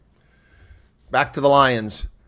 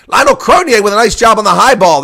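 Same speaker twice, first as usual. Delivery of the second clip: excited call; 5 semitones higher, 7 dB louder than usual. Real, not acted. Commentator praises a high catch.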